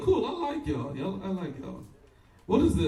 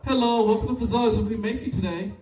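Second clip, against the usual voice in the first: drive-thru greeting; 5 semitones higher, 3 dB louder than usual. Retold or imitated. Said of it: "I'll be like".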